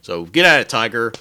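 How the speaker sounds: breezy heroic swagger; Kirk quote. Retold or imitated. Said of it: "And he says, like".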